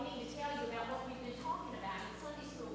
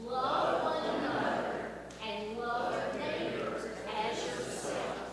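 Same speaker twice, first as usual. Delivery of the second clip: loud, slow reading in unison; group recitation; 7 dB louder, much slower than usual. Real, not acted. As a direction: read it aloud together, slowly. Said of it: "Everybody read this with us".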